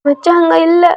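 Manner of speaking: distraught man weeping; crying. Acted. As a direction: wail it out for the lost brother-in-law. Same crying man continues.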